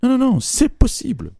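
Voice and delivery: emphatic claim. Retold or imitated.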